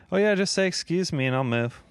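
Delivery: high, loud sugary politeness; drive-through worker voice; overly polite. Retold or imitated. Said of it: "You know, the overly polite voice".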